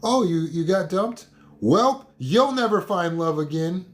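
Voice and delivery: high, mocking jeer at a dumped kid; mocking cruel parent. Parent mocking a dumped child, high jeering voice. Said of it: "You wouldn't say it to your kid".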